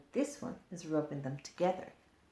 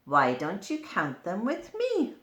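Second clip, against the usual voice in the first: louder, bouncy boastful ladybird; 3 semitones higher, 9 dB louder than usual. Acted. Ladybird inviting the child to count, loud and proud. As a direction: show off your spots proudly.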